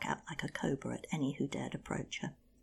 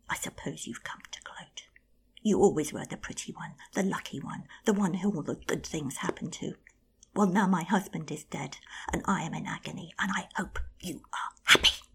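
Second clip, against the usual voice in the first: bitter outburst; 7 dB louder than usual. Acted. Bitter sister lashing out.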